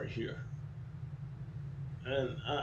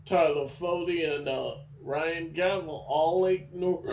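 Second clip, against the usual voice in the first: talking through hiccups; words broken by hiccups; hiccuping. Real, not acted. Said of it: "I've been hiccuping".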